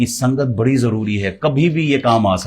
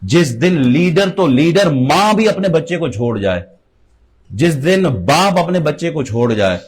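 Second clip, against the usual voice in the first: raised, swinging oratorical delivery; impassioned preaching; 3 semitones higher than usual. Real, not acted. (پُرجوش خطیبانہ انداز)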